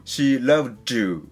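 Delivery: slow "she loved you" with the d and y fused into "ju"; teacher showing students the past-tense linking in "she loved you"; linked d-y sound. Shown as a demonstration. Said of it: "過去形の場合のshe loved you".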